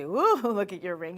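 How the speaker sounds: loud mock ooh with a laugh; hammed-up gushing over a ring; funny voice. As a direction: swoop up loudly on the ooh. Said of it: "You say it in that funny voice".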